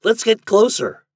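high, loud urging shout. A narrator's reading. Toad urging the attackers on, shouting high and loud. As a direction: shout it to rally the others. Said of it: "shouted Toad".

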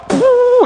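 high "pooh" whoosh noise; imitated whoosh. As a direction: make a high puff of sudden arrival. Imitates bursting through the walls.

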